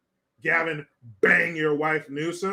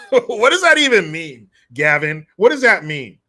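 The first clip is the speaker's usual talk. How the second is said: exasperated outburst; 9 dB louder than usual. Real, not acted. Mocking outburst at the governor.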